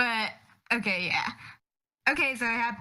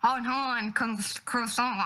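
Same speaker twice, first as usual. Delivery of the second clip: mock French; slower than usual. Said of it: "do, like, a French accent for Pierre".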